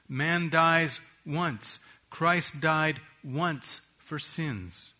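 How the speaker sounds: "once" drawn out slowly and leaned on, each time; slow down and lean hard on "once"; stress on once. Shown as a demonstration. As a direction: weigh "once" like a verdict. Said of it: "the stress in this statement".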